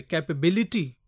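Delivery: "capability" with bil emphasized; stress on bil. Shown as a demonstration. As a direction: demonstrate "capability", leaning on bil. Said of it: "before I T Y".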